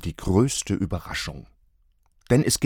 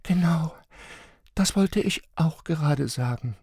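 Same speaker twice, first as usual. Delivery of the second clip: higher wife voice; wife agreeing; 9 semitones higher than usual. A narrator's reading. Wife agreeing with her husband, higher. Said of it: "sie antwortete".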